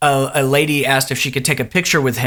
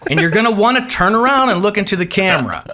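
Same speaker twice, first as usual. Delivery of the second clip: lightly voiced audience warm-up man, a bit higher; warm-up comic; 3 semitones higher than usual. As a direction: coach the crowd, half in character. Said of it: "He comes out and he says".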